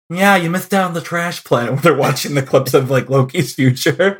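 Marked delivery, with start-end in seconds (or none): 0.1-1.7 movie character, teasing. Acted. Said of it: "where he's like".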